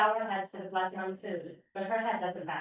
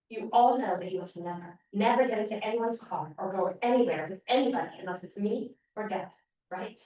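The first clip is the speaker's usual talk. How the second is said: louder, sharp warning from mom; 5 dB louder than usual. Acted. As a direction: warn them firmly and sharply. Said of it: "Mom says loud and sharp".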